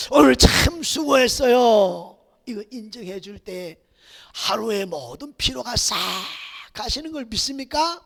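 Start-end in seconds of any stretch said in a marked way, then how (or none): 0.1-2.2 slow, gentle words of thanks; a slow, kind thank-you to a tired spouse; tender praise. Shown as a demonstration. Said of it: "제발 먼저 뭐 해줘라".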